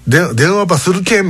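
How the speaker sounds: slipping into Kumamoto dialect mid-sentence; Kumamoto dialect slip. Retold or imitated. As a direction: friend slips into Kumamoto dialect on the phone. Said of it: "みたいな感じ".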